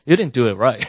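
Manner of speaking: a playful complaint call to the contractor; blaming the contractor. Retold or imitated. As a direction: tell him off half in jest. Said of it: "So I start to blame my".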